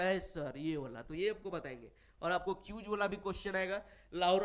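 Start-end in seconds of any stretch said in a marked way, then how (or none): 0.0-1.0 slow, lower mock-pupil reply; lightly acted student picking an option; pupil answering. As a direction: answer slowly as an imitated student. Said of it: "तब बोलेगा".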